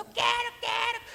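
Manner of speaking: put-on very high whining child; shrill kid demanding on the floor; tantrum wail. Boy throwing himself down in the store, high whining wail.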